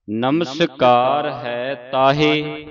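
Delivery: slow, drawn-out measured chant of the line; scripture recitation. Shown as a demonstration. Teacher reciting a verse for students to follow, slow measured chant. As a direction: recite it slowly, holding the long vowels.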